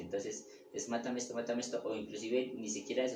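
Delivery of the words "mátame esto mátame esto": quick, run-together repeated plea; hurried demonstration of a short prayer; rapid formula. Shown as a demonstration. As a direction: rattle off the short formula twice. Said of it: "tenemos que eliminar rápidamente".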